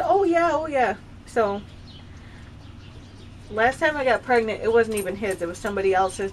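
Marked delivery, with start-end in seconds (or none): 0.0-1.0 lazy, dismissive oh yeah. Retold or imitated. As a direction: brush it off like a bored boyfriend. Ex's offhand reply quoted.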